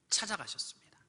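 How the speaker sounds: hushed whisper for effect. Acted. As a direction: drop to a breathy whisper. 설교 중 속삭이듯 낮춤. (속삭이듯)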